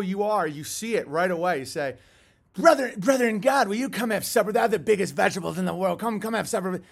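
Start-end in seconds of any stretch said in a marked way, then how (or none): 2.5-6.8 lightly voiced wheedling invitation; mock sly tempter. Host mocking cannibals luring victims to supper, wheedling. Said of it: "they literally talk like that".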